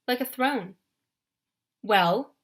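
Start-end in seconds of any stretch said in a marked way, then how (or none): 1.8-2.3 deep strong general voice. Acted. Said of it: "deeper and stronger".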